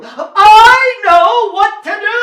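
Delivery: high, loud, eager shout; knight's cry. A narrator's reading. Knight volunteering to get the king out, loud cry. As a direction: call out boldly like a keen knight. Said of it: "cried the knight".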